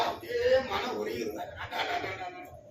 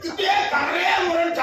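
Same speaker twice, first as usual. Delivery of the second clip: higher-pitched mock cry of distress; hammed-up lament; mock wailing; 5 semitones higher, 4 dB louder than usual. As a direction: imitate the husband bawling, played for laughs. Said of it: "கத்துறான்".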